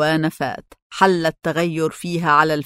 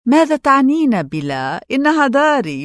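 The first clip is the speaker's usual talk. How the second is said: higher-pitched, affronted challenge; indignant; 7 semitones higher than usual. A narrator's reading. Mother challenges her daughter's refusal to sell the house, indignant. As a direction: push back with pitch raised in protest.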